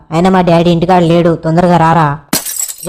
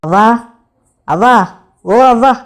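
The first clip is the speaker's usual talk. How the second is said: calling for granny, each call rising at the end; repeated rising call, higher on the last; 4 semitones higher than usual. Acted. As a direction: call out to someone indoors, lifting the last syllable. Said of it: "ఎందుకలా కుక్కలా అరుస్తున్నావు".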